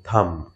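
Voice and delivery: থাম্প said tham, b kept silent; থাম্প spoken as tham, silent b; correct pronunciation. Shown as a demonstration. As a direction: say থাম্প with no b at the end. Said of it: "আমরা বলবো".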